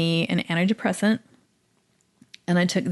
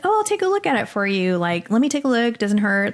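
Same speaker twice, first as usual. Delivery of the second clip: mock-sugary, high, quick offer of help; sweet realtor; 3 semitones higher than usual. Imitating the realtor offering to look at the building, high and sugary. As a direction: play her as syrupy and eager to help.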